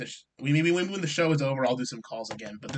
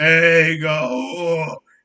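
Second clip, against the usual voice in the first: very loud, stuffed-up, stuffy-nosed voice; 2 semitones higher, 10 dB louder than usual. Imitating how someone sounds when calling in: imitating Mark's voice. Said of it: "That's what Mark sounds like".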